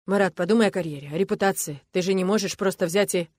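the coach scolds Marat on live air; angry coach. Acted. Loud indignant coach.

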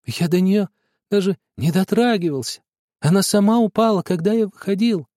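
high, halting frightened pleading; stammering. A narrator's reading. Boy stammers his denial to father, frightened. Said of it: "Я отвечал, заикаясь".

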